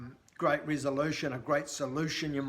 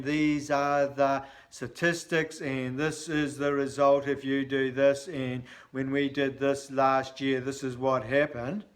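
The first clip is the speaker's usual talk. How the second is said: boring monotone; 2 semitones lower than usual. Shown as a demonstration. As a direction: drone through the numbers like a bored presenter. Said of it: "How fucking boring is that?".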